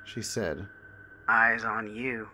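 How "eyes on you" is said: put-on slow, eerie old woman voice; old woman whispering. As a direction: creep it out slowly like an old crone. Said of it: "the old lady whispered something to me".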